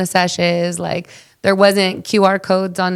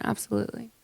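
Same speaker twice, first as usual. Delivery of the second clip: customer service voice; 2 semitones higher, 13 dB quieter, faster than usual. Shown as a demonstration. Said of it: "put on my customer service voice".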